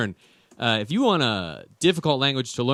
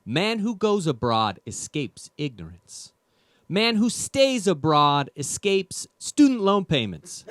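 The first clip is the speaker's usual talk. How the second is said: slow, solemn proverb voice, rising higher; mock fortune-cookie sage; 4 semitones higher, slower than usual. Translating the fake proverb for the audience, slow solemn sage. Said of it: "which in English means".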